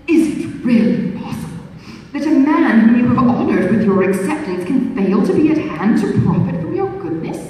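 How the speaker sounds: mock-polite flirtatious suitor; a hint of an insinuating beau; foppish gallant. Suitor's voice in read novel.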